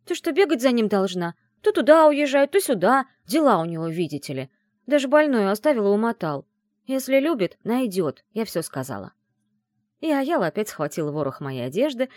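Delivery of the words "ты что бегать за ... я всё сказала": loud, high scolding outburst; friend's loud furious scolding; angry rant. A narrator's reading. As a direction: rage at the absent boyfriend. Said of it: "разозлилась Яла".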